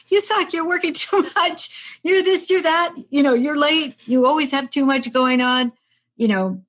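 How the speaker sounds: high, loud, scolding herself; mock-berate yourself like a nagging critic; inner critic voice. Voicing her inner critic.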